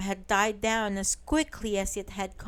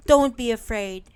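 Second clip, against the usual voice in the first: shouted; 6 dB louder, faster than usual. Acted. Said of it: "Big Bear shouted".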